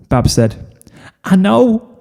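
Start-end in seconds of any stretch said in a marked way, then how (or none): 1.2-1.9 thrilled. Acted. Scootaloo thrilled.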